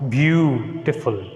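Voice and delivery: beautiful with BEAU stressed; beautiful said slowly, BEAU first and strong; stress on first syllable. Shown as a demonstration. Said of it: "we are stressing the first one".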